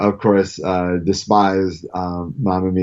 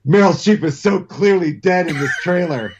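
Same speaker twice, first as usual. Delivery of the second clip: put-on a light, higher voice for an excited teen; teen daughter; 7 semitones higher than usual. Father quoting his film-student daughter in a higher voice. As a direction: announce it brightly like a kid bursting in. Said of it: "my daughter came barreling down the stairs and goes".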